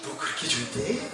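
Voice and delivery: soft, low, intimate question; hushed, low divine question; the Lord's inner voice. Retold or imitated. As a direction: ask it gently under your breath, as a voice within the heart. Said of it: "마음에서 주님이요".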